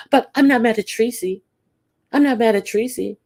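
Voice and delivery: mock insistent Kimmy. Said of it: "And then".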